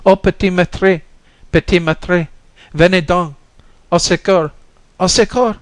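high, loud cry for rescue; desperate shout for help. Acted. La Folle calling across the bayou for help, high desperate shout. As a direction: scream as if a life depends on it. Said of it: "shouted for help as if a life depended upon it".

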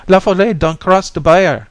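put-on very high, loud little-girl shriek; child's piercing scream. Little girl warning La Folle, piercing high scream. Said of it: "she screamed in her piercing treble".

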